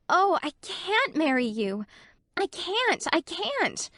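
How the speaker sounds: high, frantic outcry; cried wildly. A narrator's reading. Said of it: "she cried wildly".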